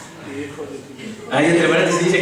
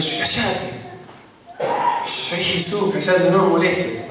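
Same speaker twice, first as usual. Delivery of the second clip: mock rebuke; 2 semitones higher, slower than usual. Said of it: "a reprender".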